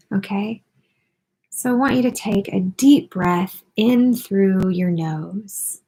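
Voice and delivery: unhurried guiding voice with long pauses; guided meditation. Acted. Host guiding listeners through breathing and posture, guided meditation. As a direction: lead them gently through each breath, leaving room between phrases.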